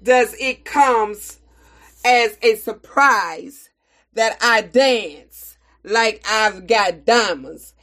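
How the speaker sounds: slow, deliberate poem reading with defiant pride; poem recitation. Acted. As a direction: recite it proudly, letting lines land. Recites Maya Angelou poem.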